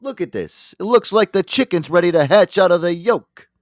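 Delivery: loud, high mock outburst at his wife; hammed-up rage about poached eggs; furious mock husband. Husband yells at his wife about badly poached eggs, hammed-up and loud.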